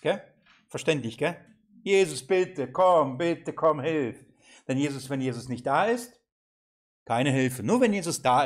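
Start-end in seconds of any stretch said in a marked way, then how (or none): 1.8-4.3 raised, urgent plea; acted pleading, pitched up a little. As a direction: beg for someone to come and help. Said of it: "er bittet".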